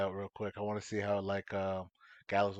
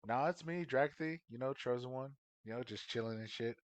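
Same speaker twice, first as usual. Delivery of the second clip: lightly voiced casual impersonation, trailing softer; Dragothy; 4 dB quieter than usual. Player posing as a friend to fool Galazar, casual. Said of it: "so I say in Dragothy's voice".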